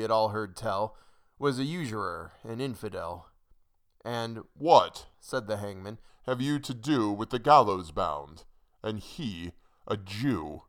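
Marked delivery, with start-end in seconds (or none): 4.5-5.1 loud, raised single word; hangman's loud retort; rebuking hangman. A narrator's reading. Hangman rebukes the questioning townsfolk. 6.2-10.6 put-on hangman voice, slowing at the end; lightly voiced scornful retort. A narrator's reading. Hangman rebukes the questioning townsfolk.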